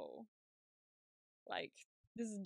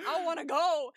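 excited wail; 5 semitones higher, 10 dB louder than usual. Real, not acted. Longing to see the tour.

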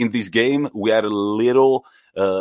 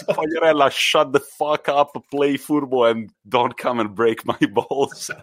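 mock telling off; 4 semitones higher than usual. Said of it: "Which means".

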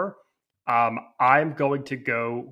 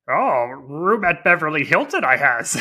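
Yoda-style backwards talk, louder; little green Jedi master flirting; 4 semitones higher, 6 dB louder than usual. Pretend. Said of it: "Master Yoda at the Daytime Emmy Awards".

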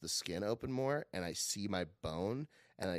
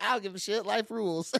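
1 carefree nurse; 10 semitones higher, 3 dB louder than usual. Retold or imitated. Laughing nurse voiced.

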